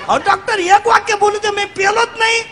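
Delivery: put-on boy pleading with the doctor, high-pitched. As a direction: whine it like a scared kid.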